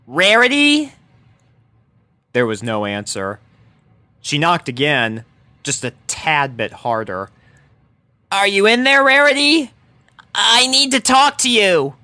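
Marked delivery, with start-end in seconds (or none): 0.0-0.9 calling a name. Acted. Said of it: "she called". 8.3-12.0 higher, louder tomboy pony calling; urgent knocking plea to a friend; Rainbow calling through door. Acted. Rainbow Dash voiced.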